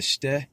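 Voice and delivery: "ste" pronounced "shteh". Shown as a demonstration. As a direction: say "ste" with a German sh at the start. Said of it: "the S is like".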